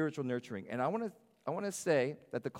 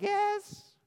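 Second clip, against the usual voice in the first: put-on very high squeaky child's yes; child's answer; 6 dB louder than usual. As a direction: squeak it like a little kid. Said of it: "They're like".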